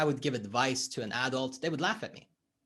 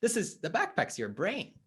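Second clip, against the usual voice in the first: acted reluctant client; faster than usual. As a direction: brush it off and back away. Client refusing to look inside.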